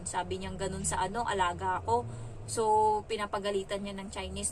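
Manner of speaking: ordinary delivery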